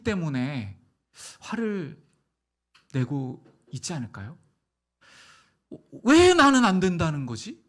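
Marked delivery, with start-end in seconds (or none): 6.0-7.6 louder, rising indignant question; Cain's indignant protest. Retold or imitated. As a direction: protest like wronged Cain. (억울해서 따지듯 큰 소리로 항의)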